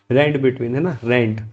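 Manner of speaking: "rand" set apart and stressed; "rand" said apart from "between", with emphasis; careful pronunciation. Shown as a demonstration. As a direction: make sure no one misreads "rand between". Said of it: "कोई इसको गलत मत पढ़ना".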